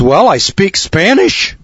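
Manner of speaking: nominee answering. Acted. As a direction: lightly play the hapless nominee. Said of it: "And the guy says".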